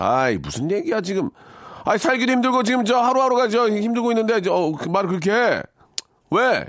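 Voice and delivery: building to high-pitched indignant ranting; turning angry. Shown as a demonstration. Husband turning on his wife, mock furious. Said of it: "되레 역으로 화를 내시기 바라겠습니다".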